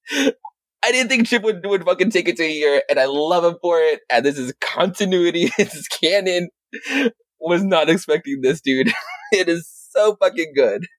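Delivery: high, thrilled fan voice; can't contain the delight; excited gushing. Real, not acted. Fan raving to co-host about the comic, excited.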